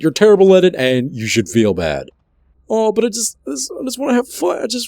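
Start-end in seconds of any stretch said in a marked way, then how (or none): 2.7-4.9 much higher, fast whiny pleading; whiny protest. Acted. Scolded host whining back at his critic, high whine.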